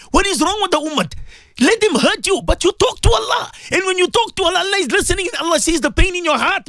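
high, fervent counsel; impassioned preaching. Retold or imitated. Host advising a brother on air, high and fervent. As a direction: urge him to turn to Allah with high fervour.

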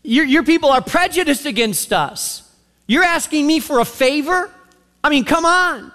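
quick, rising, put-out protest; indignant sass. Retold or imitated. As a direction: talk back like she can't believe the nerve. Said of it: "In other words".

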